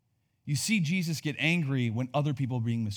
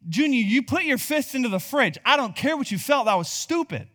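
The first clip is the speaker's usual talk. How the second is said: Paul; 8 semitones higher, 3 dB louder than usual. Retold or imitated. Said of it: "Paul would say to me".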